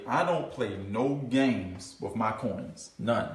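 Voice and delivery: low, slow, firm warning; quoting himself. Retold or imitated. Speaker telling his team his rule, low and slow. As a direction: lay down the rule slowly. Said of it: "I always tell them, I say".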